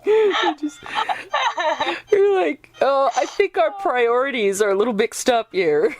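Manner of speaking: words squeezed out between laughs; laughing through it. Real, not acted. Laughing through mock reaction.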